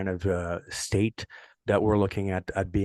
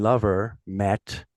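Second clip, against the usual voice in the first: slow word-for-word translation; much slower than usual. Shown as a demonstration. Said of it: "in my mind".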